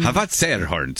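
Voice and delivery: light put-on Viking accent. Shown as a demonstration. Host repeats the show's line, Viking accent. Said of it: "trying to do a Viking accent".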